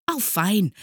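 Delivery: high, loud gleeful cheer; delighted. A narrator's reading. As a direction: welcome it with glee. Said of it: "freute sich das Sams". (freudig jubelnd)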